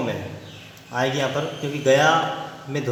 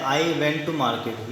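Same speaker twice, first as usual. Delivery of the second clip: each word slow and separate, as if for dictation; much slower than usual. Shown as a demonstration. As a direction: spell it out slowly for the class. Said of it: "इसके सामने जो sentence बनाया गया है". (बहुत धीमे, शब्द-शब्द बोलना)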